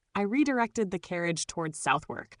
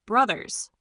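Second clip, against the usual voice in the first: raspy voice; 4 semitones higher, 4 dB louder than usual. Acted. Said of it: "his voice a rasp".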